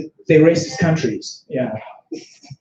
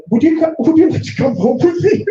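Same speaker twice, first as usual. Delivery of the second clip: much higher, coy voice for the Polish woman; high mock Polish woman; 13 semitones higher, 3 dB louder than usual. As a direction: pitch it way up as her invitation. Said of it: "And then she was like".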